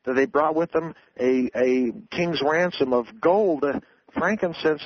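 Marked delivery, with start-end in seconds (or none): 1.5-3.6 slow phrase landing hard on "gold"; stress on gold. Real, not acted. Guest stressing the Magi's costly gift, emphatic "gold". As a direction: draw out and punch the word "gold". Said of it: "I emphasize the word gold".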